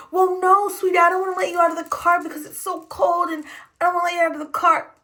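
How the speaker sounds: a sickly-sweet "sweetie" that won't budge; mock sugary driver. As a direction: talk down like she's a child, sweetly. Driver refusing again, says sweetie.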